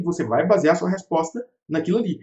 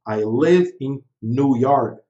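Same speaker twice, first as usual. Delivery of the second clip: slow model sentence; 3 semitones lower, much slower than usual. Shown as a demonstration. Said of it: "Porque você fala".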